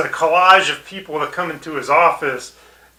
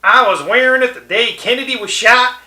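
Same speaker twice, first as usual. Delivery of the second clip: big, high, loud hollering Texan; loud Rich Texan impression; 7 semitones higher, 5 dB louder than usual. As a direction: belt it out like a whooping tycoon from Texas. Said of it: "The rich Texan".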